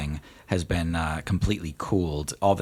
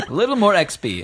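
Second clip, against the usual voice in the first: genie voice; 12 semitones higher, 5 dB louder than usual. Acted.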